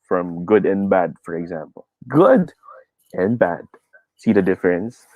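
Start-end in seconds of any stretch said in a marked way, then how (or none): 2.1-2.5 much higher, raised-volume "Good"; high pitch, strong. Shown as a demonstration. Teacher contrasting good and bad, high strong "Good". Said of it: "Medyo high pitch, malakas". 3.1-3.7 "bad" dropped low and held back; low pitch, weak. Shown as a demonstration. Teacher contrasting bad with good, low weak "bad". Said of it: "Low pitch, mahina".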